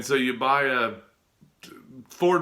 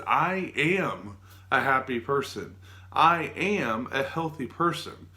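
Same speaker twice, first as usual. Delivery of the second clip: slow, believing; slower than usual. Shown as a demonstration. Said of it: "if you just say".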